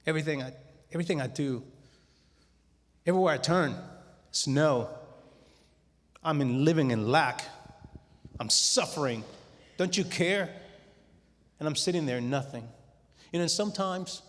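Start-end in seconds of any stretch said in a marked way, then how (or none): 0.1-10.5 raised, pleading cry upward; loud, desperate plea to heaven; crying out to God. Retold or imitated. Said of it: "and I cried out to God. I was mad".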